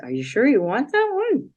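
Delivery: light imitation of a French accent, first line high. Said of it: "in French accent".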